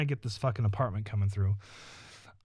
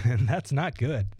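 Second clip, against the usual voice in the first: chuckling through it; amused, laughing self-dig. Real, not acted. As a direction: laugh as you say it. Laughing at own joke.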